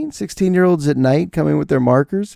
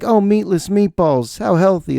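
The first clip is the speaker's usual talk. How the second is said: sarcastic; 6 semitones higher than usual. Retold or imitated. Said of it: "I'm like".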